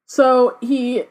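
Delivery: dramatic read-aloud of a novel; story narration. A narrator's reading. Reader tells co-host of the dead rising, story narration. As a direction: narrate the rising menace, leaning into key phrases.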